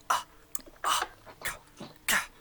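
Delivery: stammered breathy ah ka sounds; splutter, lost for words; baffled spluttering. Acted. Joffrey splutters at the player, baffled and breathy. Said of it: "just making noise".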